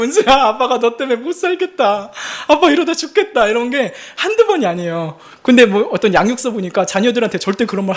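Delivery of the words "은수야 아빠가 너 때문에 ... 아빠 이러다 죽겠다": high mock-weepy dad lament; reenacted crying, pitched high; imitated tearful pleading. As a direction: wail lightly at your child, half joking. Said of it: "애 붙잡고 울어본 적 있으세요?".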